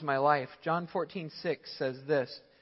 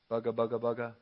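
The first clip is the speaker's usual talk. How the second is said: mock baffled mumble; 6 semitones lower, faster than usual. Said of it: "you start to go".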